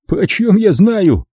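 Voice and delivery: high, slow, mildly annoyed retort; a touch of irritation, how should I know; slight irritation. Acted. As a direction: Robbie to Kelly, mildly irritated. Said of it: "с лёгким раздражением".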